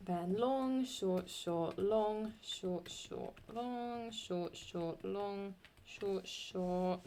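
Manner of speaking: each long and short named evenly in a steady metre; scanning a hexameter aloud. Shown as a demonstration. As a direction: tap out the metre word by word, like counting beats. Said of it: "the last one we have long and then an X".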